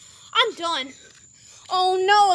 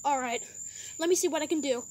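lower, quicker call-centre operator voice; operator Jimmy; 6 semitones lower, 6 dB quieter, faster than usual. Pretend. Medic service operator Jimmy answers the driver, low and brisk. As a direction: answer the phone like a calm service clerk.

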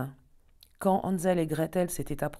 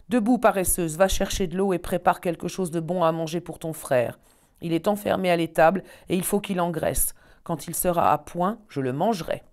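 louder, barking witch orders; witch yelling; 5 dB louder than usual. Acted. Witch shouting at Gretel to wake up, louder. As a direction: wake her with a harsh louder cry. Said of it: "s'écria".

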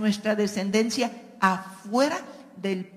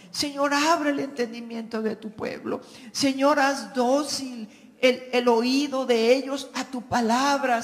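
earnest prayer voice, calling on the Lord; pleading prayer. Acted. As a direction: plead for the people before God. Pastor acts out intercessory prayer. (oración fervorosa de súplica)

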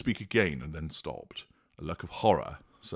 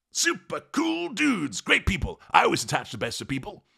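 breezy dude; 13 semitones higher, 3 dB louder than usual. Acted. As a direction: gush like a carefree surfer.

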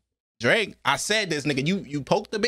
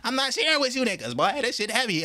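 lightly voiced cocky rapper, a bit higher; mock rapper boast; 6 semitones higher than usual. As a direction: brag like you won't share the crown. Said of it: "He's still saying".

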